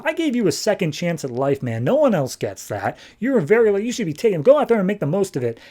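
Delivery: high, exasperated pep talk; mildly hammed-up exasperation; exasperated scolding. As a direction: urge them off in acted frustration. Stranger scolds Chris for staying.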